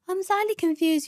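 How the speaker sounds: a hint of a baffled agent; mock confused agent. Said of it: "She goes".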